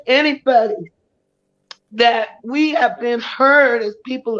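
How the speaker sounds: rising fervour, speaking for all survivors; fervent celebration. Real, not acted. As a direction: lift it up like a rally cry.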